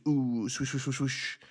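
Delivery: playful "ooh, swoosh" noises; imitated swooshing. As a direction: swish like a light cloak in motion. Imitates cat gear's swishing.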